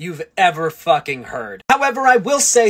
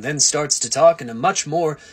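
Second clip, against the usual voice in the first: dropped voice; 6 semitones lower than usual. Shown as a demonstration. Showing how Clark becomes Superman, voice dropped low. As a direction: drop into a deep Superman register. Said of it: "where he drops his voice".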